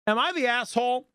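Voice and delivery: usual speaking voice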